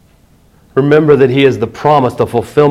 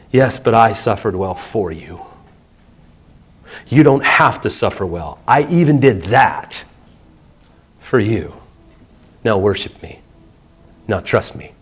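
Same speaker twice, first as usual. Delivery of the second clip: softer, low and gentle retelling of God's words; retold whisper; 5 semitones lower, 5 dB quieter than usual. Preacher retelling God's quiet words to a struggling pastor, soft and low. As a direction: lower the voice as if God speaks it gently. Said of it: "God whispered this to me".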